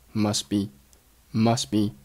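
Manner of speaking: "must be" run together with the t barely there; linked weak form. Shown as a demonstration. Teacher showing learners linked words, "must be" closed up as "mus-be". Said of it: "must结尾的t继续爆破读成了".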